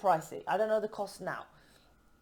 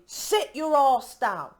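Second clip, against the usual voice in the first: slow, louder bossy order; slow, louder mock command to sit down; 4 semitones higher, 5 dB louder, slower than usual. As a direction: bark the command slowly. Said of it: "if someone comes in and says to me".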